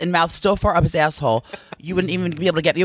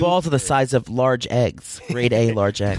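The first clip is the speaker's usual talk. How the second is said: mock deep voice; 6 semitones lower, slower than usual. Deep joke voice.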